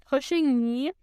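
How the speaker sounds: startled question with a rise; surprised. Acted. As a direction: repeat it, caught off guard. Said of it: "said Eeyore in surprise".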